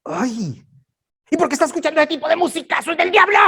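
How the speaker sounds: high, fast, shouted mock scolding; nagging church mom. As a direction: shriek that the music is of the devil. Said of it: "Entonces son muy". (mamá regañona imitada, aguda, rápida y gritando)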